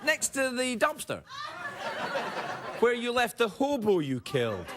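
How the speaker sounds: high, laughing through the punchline; laughing answer. Acted. Host answering a viewer's email, laughing. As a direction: crack yourself up mid-joke.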